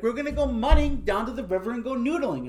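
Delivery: put-on high, bubbly country girl; lightly voiced excited Southern girl. Girl repeating plan, voiced.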